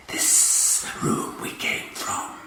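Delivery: slow harsh alien whisper. A narrator's reading. Martian warlord questioning his prisoner, harsh whisper. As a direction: rasp it without voice. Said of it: "he whispered harshly".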